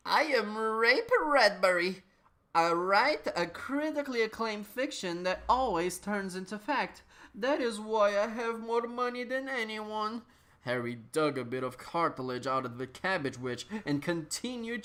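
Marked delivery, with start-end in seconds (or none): 0.1-10.2 lightly voiced, somewhat higher pompous author; Ray Bradbury. Tall tuxedo author introducing himself to Harry, in a lightly pompous voice. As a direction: boast a little, self-satisfied.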